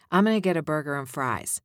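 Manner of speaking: I'm gonna said as 'm-onna, loose and quick; casual gonna. Shown as a demonstration. Coach repeating the casual version for students. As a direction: say it like an average Joe. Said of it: "Can you hear the difference?".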